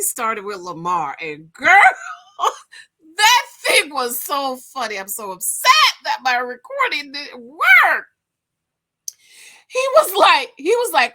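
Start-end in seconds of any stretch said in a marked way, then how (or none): 2.4-5.0 laughing through the words, louder; cracking up retelling it. Real, not acted. To her viewers, laughing at the show. Laughing about funny moment. 9.7-11.1 much higher, louder excited build-up; can barely get it out. Real, not acted. To viewers, excited before the punchline. Excited lead-in to funny quote.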